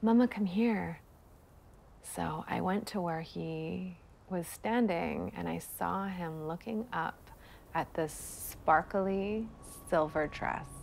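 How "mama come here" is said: put-on tiny little-kid voice. A mother recalls her son calling her over, in a teeny tiny child voice. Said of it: "this teeny tiny voice saying".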